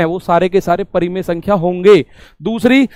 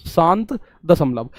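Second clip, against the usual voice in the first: slow recap; 2 semitones lower, 4 dB quieter than usual. Shown as a demonstration. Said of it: "क्या बोला जाएगा ऐसे दशमलव को?".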